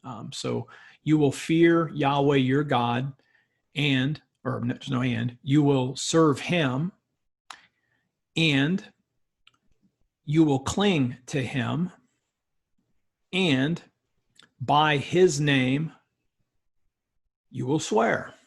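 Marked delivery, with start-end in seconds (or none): 1.0-4.2 "You will fear Yahweh your God" as one unit, then a break before "and"; phrase it by the accent marks, pausing after "God"; read in pieces. Shown as a demonstration. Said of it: "break this sentence up into little pieces". 5.4-18.3 slow phrases with a long pause after "serve him" and each "and"; measured chunks, "serve", "cling" and "swear" drawn out; read in little pieces. Shown as a demonstration. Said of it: "break this sentence up into little pieces".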